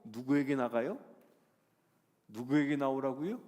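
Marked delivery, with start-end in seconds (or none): none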